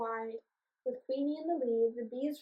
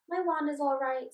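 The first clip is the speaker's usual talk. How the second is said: joyful cry; 3 semitones higher, 5 dB louder than usual. Acted. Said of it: "Saffron cried joyfully".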